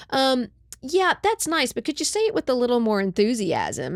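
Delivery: high, politely unimpressed producer; polite director. Retold or imitated. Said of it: "they're kinda like".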